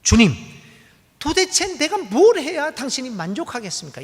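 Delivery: loud, high, pleading cry to God; desperate outcry. Acted. Worshippers crying out to God in despair, loud pleading wail. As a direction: cry out to God as if at the end of your rope. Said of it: "이렇게 외치는 거죠".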